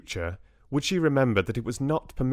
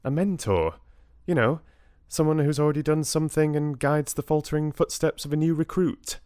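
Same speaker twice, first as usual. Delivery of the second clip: higher, quick explanatory voice; Bella, explaining; 7 semitones higher, faster than usual. Acted. Bella explains mentoring to Richard, higher and brisk. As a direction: reel off the definition, high and quick.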